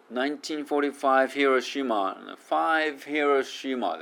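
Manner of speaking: "Five Hiroshima" with V running straight into H; no gap between "Five" and "Hiroshima"; linked words. Shown as a demonstration. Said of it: "間を空けずに".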